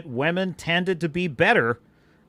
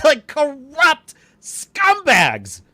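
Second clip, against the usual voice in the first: high, loud and slow, laughing through "corrupt scumbags"; laughing repeat; 9 semitones higher, 6 dB louder, much slower than usual. Real, not acted. Streamer laughing at his own insult, high and loud. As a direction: let the laugh carry the insult.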